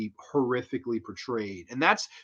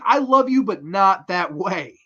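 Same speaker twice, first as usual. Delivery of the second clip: flustered firm refusal; 4 semitones higher, 4 dB louder than usual. Retold or imitated. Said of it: "He's like".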